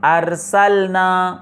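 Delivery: drawn-out model reading of ارسلنا; slow Quranic recitation. Shown as a demonstration. Teacher gives an example of hamza qat': slow recited ارسلنا. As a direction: recite ارسلنا slowly as arsalnā with the opening a clearly sounded. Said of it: "جیسے".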